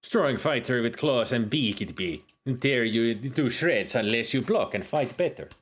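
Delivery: lightly held put-on Jamaican accent; Jamaican-leaning accent. Uhura describes a dinosaur in a light Jamaican accent. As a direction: keep a loose Jamaican lilt. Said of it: "My accent for her is going all over the place".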